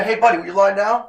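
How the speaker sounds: breezy invitation to lie down; easy friendly request to a child; cheery ask. Retold or imitated. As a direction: ask the kid casually, like it's nothing. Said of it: "you can say".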